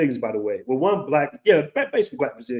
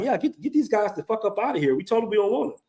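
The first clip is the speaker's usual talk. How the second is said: imitating the Ethiopian girl; 5 semitones higher, 4 dB quieter than usual. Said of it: "She's like".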